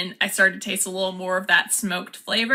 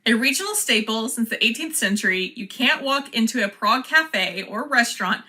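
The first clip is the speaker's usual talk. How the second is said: ad read. Acted. Reads the package blurb aloud.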